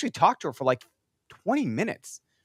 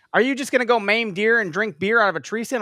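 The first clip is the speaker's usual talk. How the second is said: lightly voiced indignant woman, pitched higher; a hint of a scandalized stranger's accusing question; mocking an upset woman; 9 semitones higher, 4 dB louder than usual. Retelling a woman who stopped him at the river, a mock indignant voice. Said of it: "she was like".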